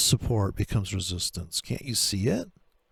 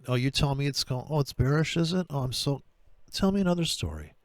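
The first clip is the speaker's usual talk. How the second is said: sarcastic mockery; 5 semitones higher than usual. Mocking bearish callers.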